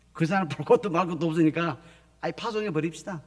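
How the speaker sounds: loud, decisive church elder voice; proclaiming the decision with force. Retold or imitated. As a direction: announce it like the final decision. Repeats church's decision as quote.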